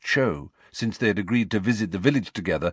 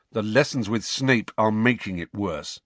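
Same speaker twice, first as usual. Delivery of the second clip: flat. Acted. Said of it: "said Harry flatly".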